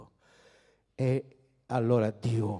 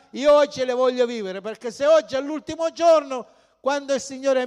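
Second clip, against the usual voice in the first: fervent preaching; 10 semitones higher, 6 dB louder than usual. Acted. Preacher building to full force.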